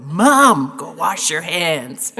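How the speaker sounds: mock the daughters scolding their mother; imitating the daughters. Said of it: "we heard that so often".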